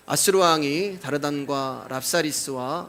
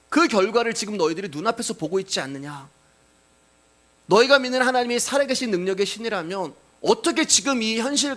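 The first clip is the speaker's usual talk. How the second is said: mocking; 3 semitones higher than usual. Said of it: "어떤 조롱이냐면".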